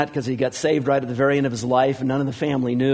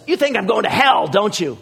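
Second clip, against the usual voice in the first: raised, mildly confrontational retold accusation; in-your-face challenge; 4 semitones higher than usual. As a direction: imitate a big guy challenging you. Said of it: "gets down in my face".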